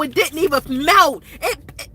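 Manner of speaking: speaking through tears; real crying. Real, not acted. Telling viewers about the snow, crying. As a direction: let the crying break into the words.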